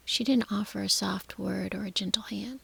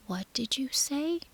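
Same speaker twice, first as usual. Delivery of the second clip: high breathless shocked whisper; gasped; 5 semitones higher than usual. Acted. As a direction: gasp it out, stunned. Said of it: "he gasped".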